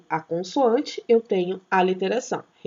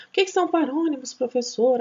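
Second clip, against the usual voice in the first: higher, fast, puzzled pupil; mock student question; 3 semitones higher than usual. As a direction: ask it like a lost student. Teacher voicing a confused student. (professora imitando aluno confuso, mais agudo e rápido)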